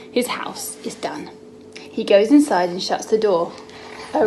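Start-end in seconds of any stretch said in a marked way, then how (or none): 0.1-1.3 soft unvoiced hush; storybook whisper. Mum reading to son, hushed whisper. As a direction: tell it like a secret.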